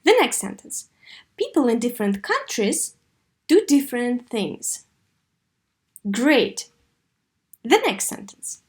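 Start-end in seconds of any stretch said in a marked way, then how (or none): 1.4-4.9 falling tune on "People", each phrase clearly shaped; model intonation. Shown as a demonstration. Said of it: "копировать интонацию".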